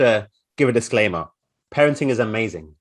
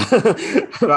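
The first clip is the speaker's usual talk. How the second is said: short high nervous laugh; 12 semitones higher, 4 dB louder than usual. Real, not acted. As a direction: laugh lightly before starting. Nervous laugh opening talk.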